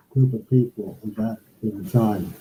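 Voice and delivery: muffled bad connection. Real, not acted. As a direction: voice muffled through a bad mic. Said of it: "You're really muffled now".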